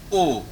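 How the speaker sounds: "O" said with well-rounded lips; "O" as a clean rounded vowel. Shown as a demonstration. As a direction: model a pure French "O", lips rounded. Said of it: "With rounded lips".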